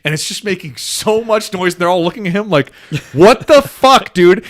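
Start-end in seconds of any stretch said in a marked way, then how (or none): 3.1-4.4 high, drawn-out outburst through laughter; exasperated, laughing cry of disbelief; mock disbelief. Fellowship staring at noisy Pippin, mock disbelief. Others react to Pippin's noise.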